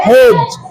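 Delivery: "हेज" with only j at the end; silent d. Shown as a demonstration. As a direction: say "हेज" without a d stop. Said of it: "डी silent".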